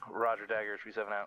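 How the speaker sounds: loud radio call over static; crackly military radio. Real, not acted. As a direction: bark it into the handset.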